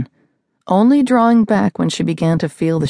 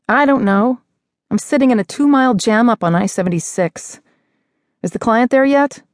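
annoyed; 7 semitones higher than usual. Acted. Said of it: "edge of annoyance in Sloane's voice".

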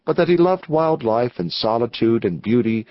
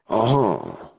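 grunt; 3 semitones lower than usual. Acted. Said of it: "grunted Anson".

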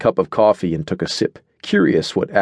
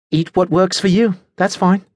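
higher-pitched, mildly conceding voice; not unkindly; 10 semitones higher than usual. A narrator's reading. Adelaide lets Natasha eat as she likes, not unkindly. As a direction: let them have it, without unkindness. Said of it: "not unkindly".

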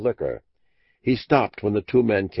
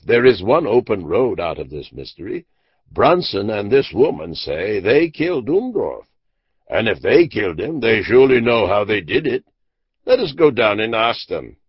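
eager insistence; 2 semitones higher, 4 dB louder than usual. Acted. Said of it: "cried Randolph".

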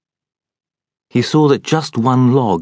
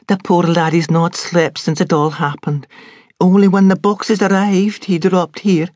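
higher, louder urgent pleading; pleading Scots maid; 9 semitones higher, 3 dB louder than usual. A narrator's reading. Maid pleads with the doctor to let him sleep.

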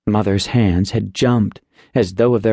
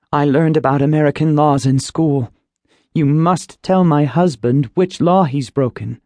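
lightly voiced mother, higher, insistent; protesting mother; 5 semitones higher than usual. Mother confronts the agent over her husband's arrest, higher and firm. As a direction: plead with the agent to give the charge.

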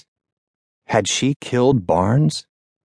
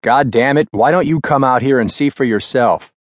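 loud, sharp talking back; angry snap; 4 semitones higher, 3 dB louder than usual. Acted. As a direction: bite back at the boss. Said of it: "Ackerman snapped back".

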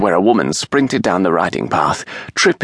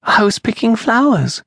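put-on high, innocent child's voice; a small girl explaining simply; little girl voice. A narrator's reading. Child answers her mother.

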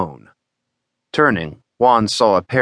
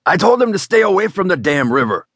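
exasperated father; 10 semitones higher than usual. Acted. Father frets about daughters.

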